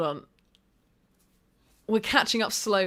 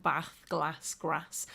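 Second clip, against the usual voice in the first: short Midlands "a" in "bath, glass, grass"; Midlands accent; 5 semitones lower, 7 dB quieter, much slower than usual. Retold or imitated. Showing how partner still talks, lightly imitated Midlands accent. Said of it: "like, a Midlands twang".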